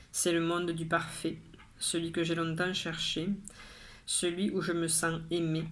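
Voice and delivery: measured poem recital with pauses between lines; poem reading. Acted. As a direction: recite each line evenly, pausing after it. Recites own poem aloud.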